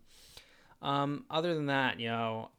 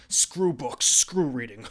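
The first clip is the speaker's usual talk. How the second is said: mock shout; 9 dB louder, slower than usual. Mock rant against books.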